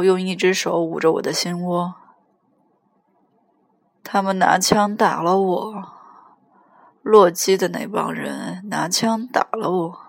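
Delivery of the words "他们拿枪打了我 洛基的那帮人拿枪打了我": put-on slow, mildly drunken complaint; understated drunk phone voice. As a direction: stretch it out like a tipsy man. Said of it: "我真是醉了".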